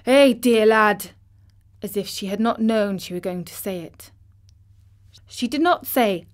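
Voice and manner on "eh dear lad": slow, louder trembling mother; overcome, voice shaking; tremulous. Acted. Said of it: "she broke out tremulously".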